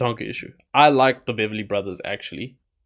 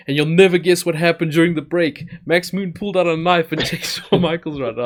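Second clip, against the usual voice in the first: hyped announcer voice; 7 semitones higher, 4 dB louder than usual. Retold or imitated. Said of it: "he's like".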